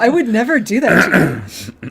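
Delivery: laughing through a fond promise. Retold or imitated. Host voicing Q promising Data, laughing. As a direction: reassure him with a chuckle. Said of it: "he's like".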